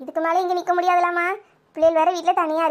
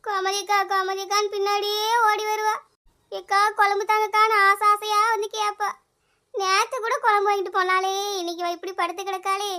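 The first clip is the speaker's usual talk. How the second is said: mourning lament. Acted. Mourning lament over the body.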